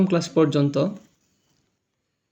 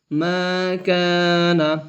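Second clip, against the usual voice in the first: each syllable stretched slowly; teacher drawing out মা কা না for pupils to repeat; very slow drawn syllables; 5 dB quieter, much slower than usual. Shown as a demonstration. Slowly drawing out মা কা না to pupils. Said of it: "তাড়াতাড়ি পড়তে হয়".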